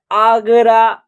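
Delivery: "आगरा" sounded out with long 'aa' vowels; teacher's clear "आगरा", A as long 'aa'. Shown as a demonstration. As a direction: model "आगरा" carefully, opening on a full 'aa'. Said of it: "ए का आ उच्चारण".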